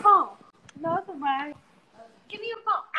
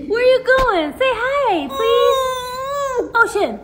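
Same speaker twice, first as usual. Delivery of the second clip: high coaxing; 4 semitones higher, 3 dB louder, slower than usual. Real, not acted. Mom coaxing toddler on camera.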